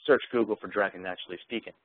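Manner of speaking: a clear voice command to the software; dictated command. Shown as a demonstration. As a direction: say it plainly as a search command. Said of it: "I can simply say".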